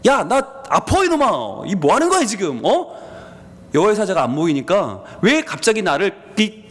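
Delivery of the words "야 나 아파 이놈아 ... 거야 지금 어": higher, pained scolding shout at the donkey; angry yelling. Acted. Balaam with his foot crushed scolds the donkey, angry and pained. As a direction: yell like your foot just got crushed.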